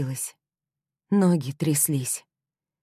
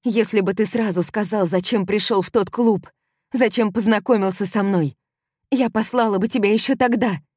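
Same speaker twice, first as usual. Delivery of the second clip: furious accusation; 7 semitones higher, 6 dB louder than usual. Acted. Heroine accuses him furiously.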